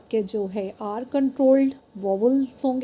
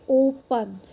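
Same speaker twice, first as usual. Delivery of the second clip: "ओपन" with the first vowel stretched; long vowel; slower than usual. Shown as a demonstration. Teacher showing the open syllable, "ओपन" with a long O. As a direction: hold the O in "ओपन", then finish the word. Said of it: "the vowel make the long sound".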